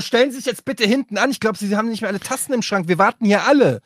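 firm demand. Acted. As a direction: order the queue jumper to the back. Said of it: "hätte man es noch etwas bestimmter sagen müssen".

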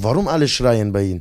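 imitated Turkish teacher's halting German; broken Turkish-accented German. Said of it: "der konnte nicht so gut Deutsch".

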